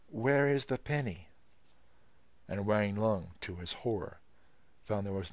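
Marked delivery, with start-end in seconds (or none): 0.1-1.3 sharp demand. Acted. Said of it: "demanded sharply".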